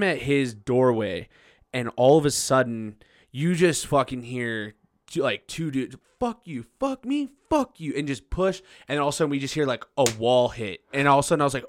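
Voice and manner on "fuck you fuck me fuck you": high-pitched retold bickering; mock brawl. Two dudes overheard fighting at the bar, mock angry. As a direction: imitate two guys squaring off.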